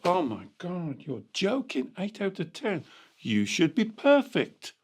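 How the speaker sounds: softly acted, incredulous reproach; hushed, disbelieving parental scolding; mock disappointed parent. Coach plays parent let down by child's test score, mock disbelief.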